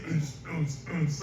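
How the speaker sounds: mouthed thumping club bassline; imitated club beat. Son imitating what he hears behind dad on the phone, club beat. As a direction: mimic the bass thump of a club. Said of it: "like they're in a club or something".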